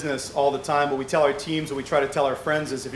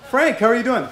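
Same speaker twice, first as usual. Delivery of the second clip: loud, high, hearty imitated greeting; Paul Martin; 8 semitones higher, 8 dB louder than usual. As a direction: boom out an old-pal hello, pitched way up. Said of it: "The Right Honorable Mister Paul Martin".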